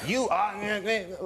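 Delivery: lightly mimicked nagging wife; imitating wife's mocking. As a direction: mimic her broken-off scolding in bursts of noise. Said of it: "That's how she talks".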